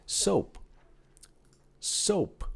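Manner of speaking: Soap said high and bright; high classroom model of Soap; high model word. Shown as a demonstration. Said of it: "repete comigo".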